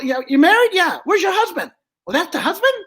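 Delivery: high, brash dummy voice; Joey the dummy. Acted. Dummy flirting with the lady down front, high and brash.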